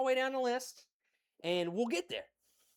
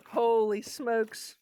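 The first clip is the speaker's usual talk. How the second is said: amazed; 2 semitones higher, 6 dB louder, much slower than usual. Real, not acted. Reacting to tasting.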